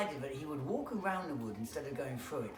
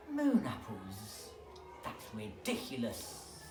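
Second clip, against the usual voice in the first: scornful snake thought; 4 semitones lower, slower than usual. Acted.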